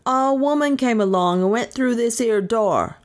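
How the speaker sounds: london policeman. A narrator's reading. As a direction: repeat it like a dull automaton. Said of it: "repeated the man monotonously".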